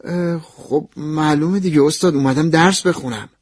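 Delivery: a touch of indignation; upset. Acted. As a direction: answer the professor a little put out. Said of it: "با ناراحتی گفتم".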